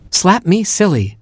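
high, incredulous repeat; taken-aback echo. Acted. Chimp hearing his new name, high startled echo.

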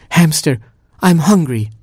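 high, plaintive little-sister whine; whiny Gerbil voice. A narrator's reading. Hungry gerbil complaining to her brother.

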